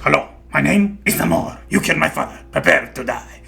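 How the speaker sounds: put-on voice for a famous revenge line; mock film avenger. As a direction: parody a vengeful movie hero.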